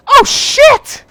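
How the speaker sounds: high, loud panicked cry; panicked outburst. Retold or imitated. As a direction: blurt it out in sudden panic. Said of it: "I was freaking the fuck out".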